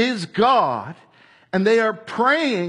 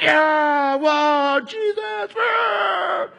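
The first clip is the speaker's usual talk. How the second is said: awestruck crowd; 9 semitones higher, much slower than usual. Retold or imitated. Preacher voicing the awed crowd, high and amazed. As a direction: gasp out his name in wonder. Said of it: "everyone's like".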